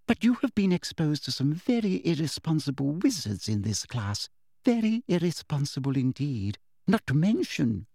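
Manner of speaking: lightly voiced prim teacher, falsely kind; sweet teacher voice. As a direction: talk down to her with syrupy politeness.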